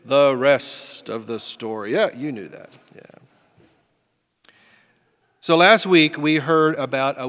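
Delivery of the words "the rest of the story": dramatic radio sign-off with a weighty pause; pause, then deliver the famous tagline; imitating a broadcaster's signature line; Paul Harvey catchphrase. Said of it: "as Paul Harvey used to say".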